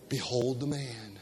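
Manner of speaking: low, soft group response; class recitation. Shown as a demonstration. Congregation finishing the verse, soft and low. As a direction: murmur it back with the class. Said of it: "finish that phrase, please".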